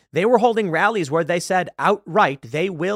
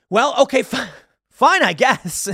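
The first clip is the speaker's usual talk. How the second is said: grudging acceptance; 8 semitones higher, 6 dB louder, slower than usual. Pretend. His own grudging reply acted.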